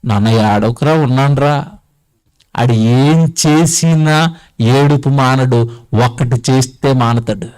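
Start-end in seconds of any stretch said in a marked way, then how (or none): 0.0-1.7 put-on low, gentle soothing of a baby; lightly acted comfort, pitch dropped; reassuring parent. Parent comforting a crying newborn to give courage, reassuring. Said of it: "వీడికి ధైర్యం పుట్టాలి అంటే".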